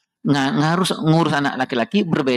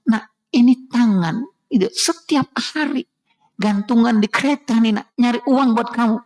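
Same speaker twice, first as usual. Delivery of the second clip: higher, slow, insistent self-justification; defensive plea; 7 semitones higher, slower than usual. Retold or imitated. Father showing son his hands from the train, slow defensive plea. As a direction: drag it out proudly, slowly.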